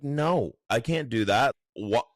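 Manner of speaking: lightly voiced judge refusing; mock judge. Judge refusing the lawyer's request, lightly mocked incredulity. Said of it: "And the judge was like".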